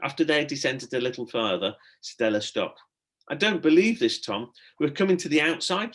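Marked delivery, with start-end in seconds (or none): 3.3-5.9 higher, louder excited cry; can't believe it, shriek it. A narrator's reading. Stella to Tom, seeing daylight, excited shriek. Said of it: "she shrieked".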